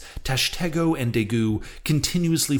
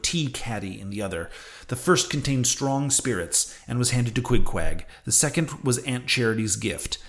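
put-on measured audiobook reading of an old sea novel; story narration. A narrator's reading. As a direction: read it out like a literary narrator. Reads a novel aloud.

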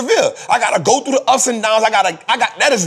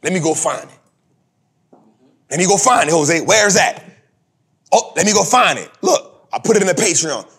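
low, quick inner voice spotting a chance; upbeat self-talk; 4 semitones lower than usual. Retold or imitated. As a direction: mutter it to yourself, eager. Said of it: "Guess what I said to myself?".

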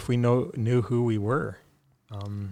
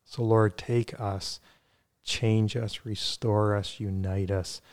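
measured prayer with pauses between phrases; spoken prayer. Real, not acted. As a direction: pray aloud sincerely, phrase by phrase. Leads a closing prayer.

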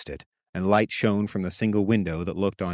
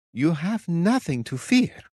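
slow, higher, tender reassurance; tender witch; 9 semitones higher, slower than usual. A narrator's reading. Witch reassuring the captain, slow and tender. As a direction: soothe him gently.

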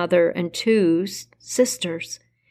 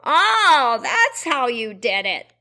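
higher, sudden realisation; surprised witch; 4 semitones higher, slower than usual. Acted. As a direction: witch catching on, startled. Baba Yaga realises, about to shriek.

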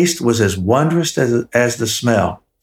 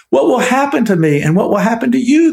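tiny ogre wailing; 10 semitones higher than usual. A narrator's reading. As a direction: wail it in a small frightened creature voice. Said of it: "the caretaker wailed".

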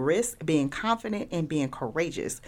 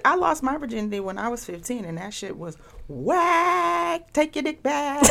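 comic indignation; 9 semitones higher than usual. Real, not acted. Comic retelling of lost virginity.

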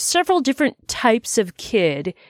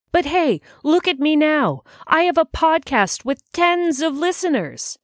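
mock boastful; 8 semitones higher than usual. Mock boast about tiny podcast.

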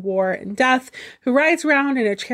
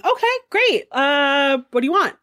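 eager bargaining; 3 semitones higher, much slower than usual. Acted. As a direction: rattle off offers like a nervous salesman. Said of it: "Loki starts bargaining".

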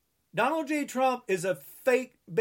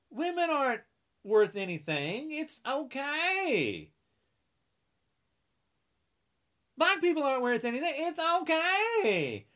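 sarcastic mockery; 5 semitones higher than usual. Mocking Republicans' excuses.

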